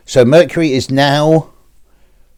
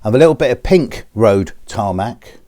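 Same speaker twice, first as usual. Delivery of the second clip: normal talking voice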